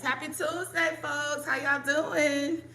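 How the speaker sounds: scratchy morning voice; raspy voice. Real, not acted. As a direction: talk through a raspy throat. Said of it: "Excuse my raspy voice or scratchy voice".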